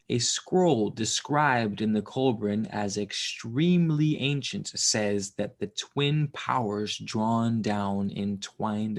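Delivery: slow, measured book reading; story narration. A narrator's reading. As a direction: read it out slowly and deliberately.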